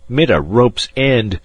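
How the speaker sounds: put-on slow German-accented growl, hitting "mit" hard. A narrator's reading. German passenger repeating his scorn, harder slow German growl. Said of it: "growled the German".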